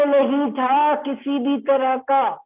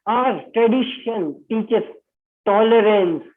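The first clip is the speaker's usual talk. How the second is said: reading a quoted line out very slowly; teacher reading a verdict line to students, very slow; slow reading aloud; much slower than usual. Shown as a demonstration. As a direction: read it out word by word, slowly. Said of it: "जो मैं as it is आपके लिए पढ़कर बताता हूँ".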